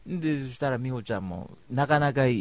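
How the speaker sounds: ordinary talk, nothing marked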